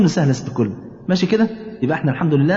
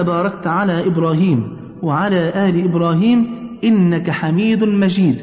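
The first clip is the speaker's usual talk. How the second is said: slow, measured recitation in separate phrases; prayer recitation. Shown as a demonstration. Teaching mother the whole tashahhud, slow recitation. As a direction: recite it phrase by phrase, drawing out the long vowels.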